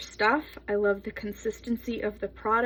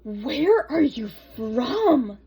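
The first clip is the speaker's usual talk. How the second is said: curious classmate voice; 5 dB louder, much slower than usual. Retold or imitated. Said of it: "this girl was like".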